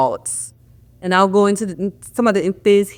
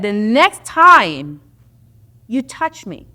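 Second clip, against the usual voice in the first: slow warning threat; 3 semitones higher, 4 dB louder, slower than usual. Retold or imitated. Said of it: "And I said".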